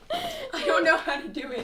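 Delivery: speaking through laughter; laughing. Real, not acted. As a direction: laugh the words out. Laughing after impression.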